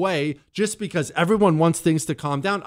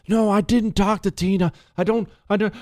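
higher-pitched, pleading denial; desperate calm; 6 semitones higher than usual. Acted. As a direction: play the boyfriend trying to placate her. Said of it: "like a desperate calm".

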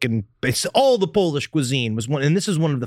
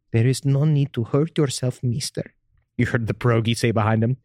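seductive pierogi voice; 4 semitones lower than usual. Acted.

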